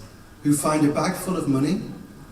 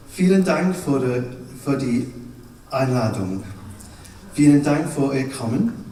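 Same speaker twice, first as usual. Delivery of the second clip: pretend German; 4 semitones lower than usual. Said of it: "I'm going to pretend to speak German".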